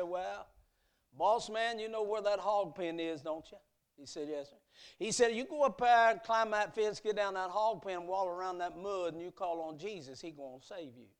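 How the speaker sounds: put-on gentle, unhurried old servant giving directions; Sam the servant. Servant Sam voiced in story.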